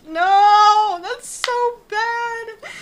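loud, high, drawn-out wail of protest; long, high groaning shout; appalled outcry. Real, not acted. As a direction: cry out in amused horror at a terrible pun. Appalled outcry at awful title suggestion.

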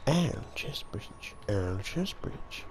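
slow, drawn-out repeated catchphrase; quoting a catchphrase. Retold or imitated. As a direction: stretch each repeat like a meme. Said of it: "the amount of times I've said".

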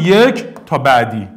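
ordinary delivery

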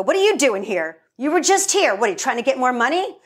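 suspicious mom. Retold or imitated. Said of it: "My mom would go".

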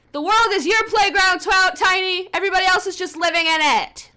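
high, loud, over-the-top declaration; grand proclamation. Real, not acted. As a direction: crown her queen of chaos. Grandiose shout at her sim.

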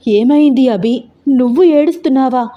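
mother amazed her daughter is crying; surprised. Acted. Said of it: "ఆశ్చర్యంగా చూస్తూ అడిగింది". (ఆశ్చర్యంగా)

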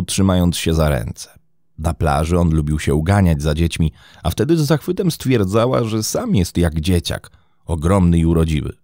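ordinary delivery, nothing marked

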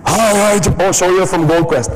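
high, strained scratchy voice; hoarse voice. Shown as a demonstration. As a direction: talk past a worn-out throat. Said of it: "I've lost my voice".

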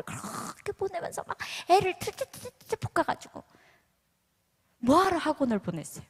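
mock lecture from a frustrated mom; a hint of a driven mother nagging; nagging Korean mother. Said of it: "그럼 뭐라 그래요?".

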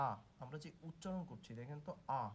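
আ said with a wide-open rounded mouth; open vowel demo. Shown as a demonstration. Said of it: "গোলাকৃতিটা অনেক বড় হচ্ছে". (মুখ বড় করে খুলে আ উচ্চারণ)

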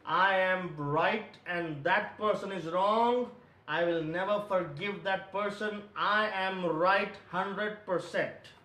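slow, emphatic insistence; self-justifying. Acted. Preacher voicing believers who justify their anger, insistent. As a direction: insist on being right, drawing the words out. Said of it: "We justify it and we say".

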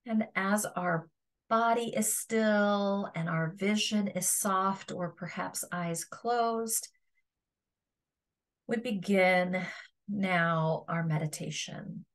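calm meditation guide with long pauses; guided meditation. Acted. Yoga teacher guiding listeners to feel their resting body, guided meditation. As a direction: guide them through a body scan, leaving space between phrases.

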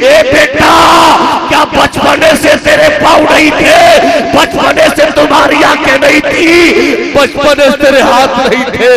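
high, loud motherly cry; loud, high questioning cry; calling out. Acted. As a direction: call out to the son in alarm. Old mother calls out to son.

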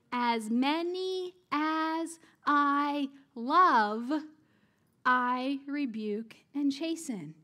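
drawn out very slowly, each word weighed; slow, solemn scripture reading; slow emphatic reading. Shown as a demonstration.

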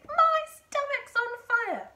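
high, slow, howling shout; sudden shout. A narrator's reading. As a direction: wail it out as if burning inside. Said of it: "she shouted suddenly".

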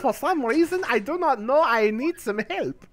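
mock German accent. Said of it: "for now I am German again".

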